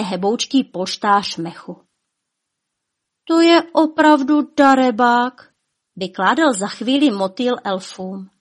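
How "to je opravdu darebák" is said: high, loud verdict; indignant report. A narrator's reading. Butterfly to the elves about the dragon, indignant.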